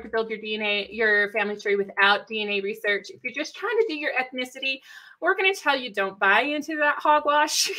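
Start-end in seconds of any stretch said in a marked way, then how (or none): 5.2-7.8 folksy Texas twang; Texan accent on lively, punchy talk. Real, not acted. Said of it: "you got my Texas accents going".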